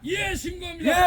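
loud barked report; korean military style. Shown as a demonstration. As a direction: shout it like a drill sergeant. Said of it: "신고 한번 해봐". (군대식으로 힘차게 신고)

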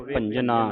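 ਭੰਜਨਾ with a clearly sounded N. Shown as a demonstration. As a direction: sound the nanna fully in ਭੰਜਨਾ. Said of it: "ਨੰਨੇ ਦੀ ਆਵਾਜ਼ ਉਚਾਰਨ ਹੋਵੇ".

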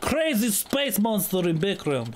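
mock Russian accent. Russian character jokes, dropping articles.

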